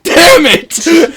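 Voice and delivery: high, loud burst of dismay; mock frustrated shout. Retelling learning he moaned in the cinema, mock frustration. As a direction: curse it out, playfully exasperated. Retold reaction to moaning out loud.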